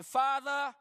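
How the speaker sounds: hushed congregational prayer; led prayer. Shown as a demonstration. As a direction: pray it gently, line by line. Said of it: "Raise your hands and say".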